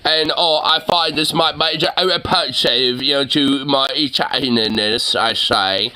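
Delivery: exaggerated mumbled British accent; mocking British accent. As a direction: parody a British speaker, slurring the words. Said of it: "me British voice".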